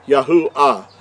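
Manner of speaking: Yahuah as Yah-oo-ah, no W; correct pronunciation. Shown as a demonstration. Teacher showing the Creator's name, Yahuah pronounced Yah-oo-ah. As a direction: say Yahuah with an open Ah ending. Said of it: "would be how the Creator's name".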